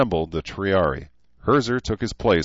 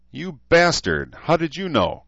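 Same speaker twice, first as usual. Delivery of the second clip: moaning; 10 semitones higher than usual. Acted. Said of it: "Cruz moaned".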